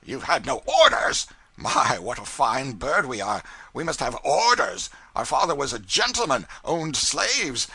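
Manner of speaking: loud, high sarcastic tirade building to a roar; mock him, then blow up; mocking rant. A narrator's reading. Furious pilot mocking the cub's demand for orders, loud and high. Brown ranting mockingly at cub.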